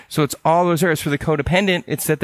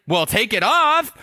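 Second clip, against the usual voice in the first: higher, slow, offhand buddy voice; casual buddy advice; 9 semitones higher, slower than usual. Retold or imitated. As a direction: shrug it off like a laid-back friend. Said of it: "He's like".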